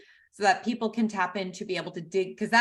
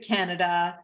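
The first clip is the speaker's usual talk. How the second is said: booming ring-announcer introduction; 2 semitones lower, 3 dB louder than usual. Pretend. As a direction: introduce the guest like an arena announcer. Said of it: "I'm doing the announcer voice".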